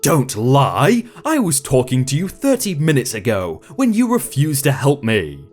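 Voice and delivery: put-on storytelling in an Indian accent. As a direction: keep the Indian accent through every voice. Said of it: "I'd like to apologize for the accent".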